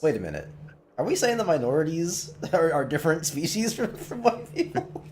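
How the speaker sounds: high, rising alarmed voice; suddenly realizing something awful; shocked realization. Retold or imitated. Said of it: "and they were like".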